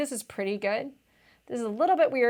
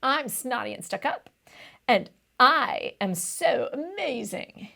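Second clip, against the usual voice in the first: snobby boaster; 2 semitones higher, slower than usual. Retold or imitated. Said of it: "Boast means".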